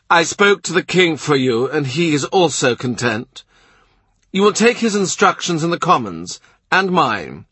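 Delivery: gruff duke. A narrator's reading. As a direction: play the proud, impatient duke. Duke of Norfolk voiced.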